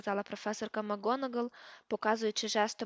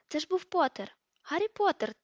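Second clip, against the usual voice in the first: much higher and louder, thrilled shout; excited pupil; 6 semitones higher, 5 dB louder than usual. Acted. A pupil spots Harry in the corridor, excited shout. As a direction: call out in amazement at the sight.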